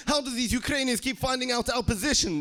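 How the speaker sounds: high-pitched mock exasperation; baffled soldiers. Russian soldier to his troop about being found, baffled and high-pitched. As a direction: demand it in a high, bewildered voice.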